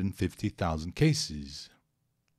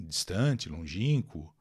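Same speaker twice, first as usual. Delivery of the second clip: ordinary talk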